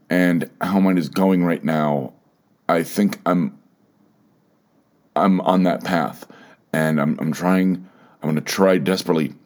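fighting to keep the voice steady; getting emotional. Real, not acted. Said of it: "you can probably hear it a little bit in my voice".

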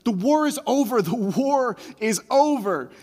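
put-on a young man telling an old man the war ended; joyful announcement. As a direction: shout the good news, growing. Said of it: "So he's like".

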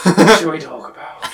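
villain line broken by giggles; failed impression, laughing; laughing through it. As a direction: try to stay creepy but crack up. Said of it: "Oh, I'm so bad".

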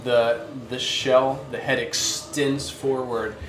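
story narration. Acted. Game master scene setting.

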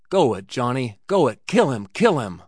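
shouted, urging a fighter on; a cowboy bellowing at a brawl to kill; frenzied yelling. Acted. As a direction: roar it from the ringside, wild with bloodlust. Cowboy cheering on a fistfight.

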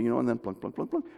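pluck the notes quickly and lightly; quick plunking. Shown as a demonstration. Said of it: "I can speed it up".

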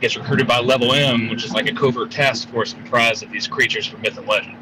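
calling in from a moving car; phone call from the driver's seat; car speakerphone. Real, not acted. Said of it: "Sorry, I'm driving".

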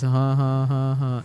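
flat robotic ha ha; robot laugh. Shown as a demonstration. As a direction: laugh like a robot, each ha even. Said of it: "those fucking robotic laughs".

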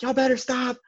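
lightly mimicked high-pitched drill instructor; a hint of a strict instructor barking threats; imitating strict instructor. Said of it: "screaming at the flight".

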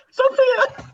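high mock yell for a wife; hammed-up shout for his wife. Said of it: "he's shouting his wife".

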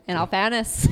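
attempted Irish accent, rising end. Shown as a demonstration. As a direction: try a loud Irish lilt. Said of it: "I can do the Irish one".

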